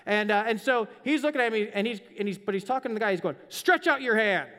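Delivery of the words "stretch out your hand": firm and louder, a stern order; a command from a man who is angry. Retold or imitated. Jesus, angry at the leaders, orders the man: firm, loud command.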